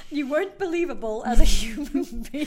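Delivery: mock harsh feedback. Quoting harsh feedback, amused.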